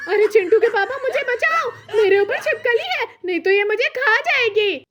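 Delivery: high scared plea with laughter; mock panic. Mother begging husband to save her, mock panic. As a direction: cry out in comic fright.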